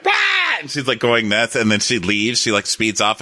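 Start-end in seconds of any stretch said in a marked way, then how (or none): 0.0-0.1 mock outburst. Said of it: "when Susan is like".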